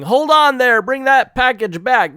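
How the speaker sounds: mock shout at a thief across the street; yelling. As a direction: call out after him, hammed up. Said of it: "starts yelling".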